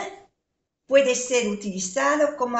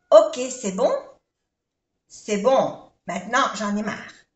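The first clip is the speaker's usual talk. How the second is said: fed up; 4 dB louder than usual. Shown as a demonstration. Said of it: "Que dice basta".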